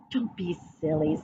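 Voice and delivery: dismissive mom. A narrator's reading. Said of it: "said Mom".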